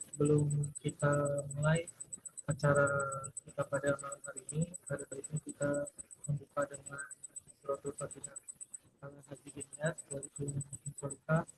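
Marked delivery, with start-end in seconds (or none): 3.5-11.5 choppy, cutting-out connection; glitching audio. Real, not acted. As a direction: voice breaking up on a bad line. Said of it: "Suaranya putus-putus ya".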